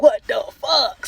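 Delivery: loud, slow disbelieving outburst; shocked shout. Retold or imitated. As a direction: blurt it out in outrage. Loud shocked reaction to discovery.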